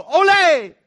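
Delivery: high, loud playful "Ole!" like a bullfighter; hammed-up bullfight cry; mock ole. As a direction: whoop it out as if dodging the kids. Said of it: "tempted at times to go".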